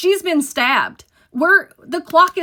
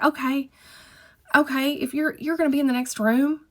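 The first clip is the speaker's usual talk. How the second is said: higher, hesitant okay; nervous agreement; 4 semitones higher than usual. Retold or imitated. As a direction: agree too quickly, pitched up and unsure. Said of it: "how fucking dumb it was for me to be like".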